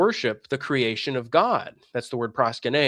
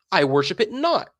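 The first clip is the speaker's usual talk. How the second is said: whispered retort; 4 semitones higher than usual. Retold or imitated. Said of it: "you will say".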